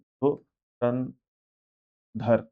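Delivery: धुरंधर very slow and low, in syllables; spelling out. Shown as a demonstration. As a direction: say धुरंधर as "dhu... ran... dhar", long gaps. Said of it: "आपने spelling नहीं देखी".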